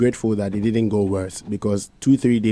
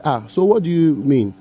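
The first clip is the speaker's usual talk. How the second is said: raised-pitch retold protest; 6 semitones higher, 4 dB louder than usual. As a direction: replay his own upset pushback, somewhat higher. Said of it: "Then I said".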